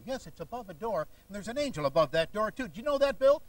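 mock preacher, rising on the question; hammed-up revelation from a healer; W V Grant imitation. Healer revealing an address to the man, mock preacher wonder. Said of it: "a short imitation of a man named W V Grant".

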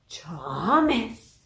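stern principal. Acted. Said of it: "their very best stern principal face".

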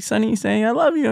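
high, lightly acted coaxing; imitated parent's singsong urging; retold parent prompting. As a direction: coax a toddler to say it, half-acted. Parent prompting child on FaceTime.

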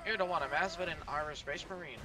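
rolling Scottish brogue, hammed up; Scottish accent. Shown as a demonstration. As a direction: growl it like a Scottish warrior. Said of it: "I mean Scottish".

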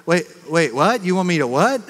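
can't believe what's being asked; incredulous double take. Retold or imitated. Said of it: "and you go".

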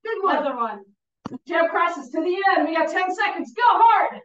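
loud, high final push; coach urging on. Real, not acted. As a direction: drive them to the bell. Final seconds of round.

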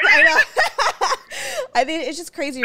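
crying laugh, high and loud; teary laughter; laughing through tears. Real, not acted.

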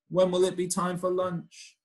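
high, sing-song hungry question; hungry refrain. Acted. Child in the story wondering about lunch, high sing-song voice.

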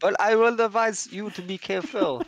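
put-on a light, hammy French accent; mock French accent. Priest explaining his need, in mock French accent. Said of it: "Too busy with the accent".

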